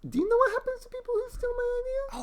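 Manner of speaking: menacing mobster voice. Acted. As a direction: threaten like a mob boss. Kid turns menacing.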